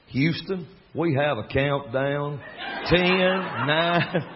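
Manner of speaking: lightly southern Houston countdown, slow; a hint of Alabama accent on "Houston, we have a countdown". Joking to the coffee lady, a mild southern accent. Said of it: "It sounds like this".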